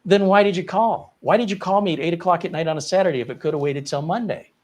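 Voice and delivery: high, loud and fast frustrated challenge; exasperated retold question. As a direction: demand why she called at all.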